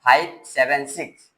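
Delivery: each of "five seven six" read separately; "five seven six" counted out one by one; digit by digit. Shown as a demonstration. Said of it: "ऐसे पढ़ा जाता है".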